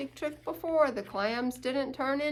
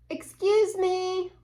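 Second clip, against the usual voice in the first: a higher, slower, polite squeak of excuse me; higher, slower character take on excuse me; little character voice; 8 semitones higher, 8 dB louder, slower than usual. Acted. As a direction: say it like a tiny polite animal. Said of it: "They should know how to say".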